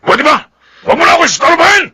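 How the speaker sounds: annoyed snap. Acted. Father telling the mother to stop bothering him, fast annoyed snap. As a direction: brush her off impatiently.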